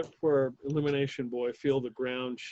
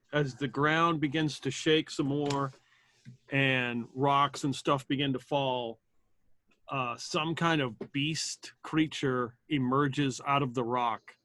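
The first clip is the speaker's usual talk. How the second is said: game master narration; slower than usual. Acted. GM scene setting.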